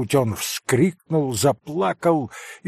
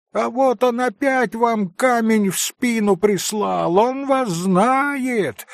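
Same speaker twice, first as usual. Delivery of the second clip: high, lightly voiced kids calling out; children shouting; 8 semitones higher than usual. A narrator's reading. Children warn Alyosha, lightly voiced high call. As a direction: warn him like excited kids. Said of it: "закричали дети".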